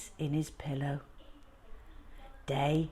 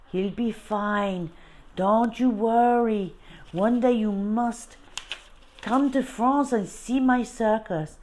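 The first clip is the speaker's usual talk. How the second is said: reassuring Frenchman; 4 semitones higher than usual. Acted. Frenchman saying goodbye to Bertie, higher and cheerful.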